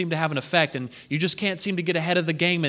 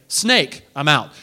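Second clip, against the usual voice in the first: panicked Moses; 3 semitones lower, 5 dB louder, slower than usual. Acted. Moses fleeing the snake.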